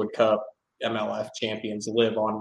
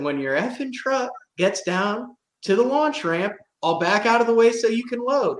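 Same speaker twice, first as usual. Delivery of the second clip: mock heated reply; defiant retort; 9 semitones higher than usual. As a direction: put them in their place. Buddy snapping back at boaters.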